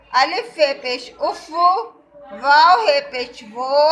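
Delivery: measured classroom read-along; teacher leading a reading drill; slow spelling recitation. Shown as a demonstration. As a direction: read each syllable clearly for kids to follow. Reads the list for children.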